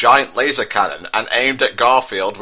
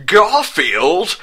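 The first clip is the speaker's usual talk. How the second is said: hammed-up squeal of horror, much higher; 9 semitones higher, 4 dB louder than usual. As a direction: shriek his name in mock terror. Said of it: "yelled out Prince William in tones of squealing horror".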